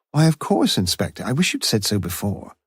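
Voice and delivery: lightly voiced older woman; Mrs Jarman. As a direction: pitch up, keen to please the Inspector. Housewife answers Inspector Morse.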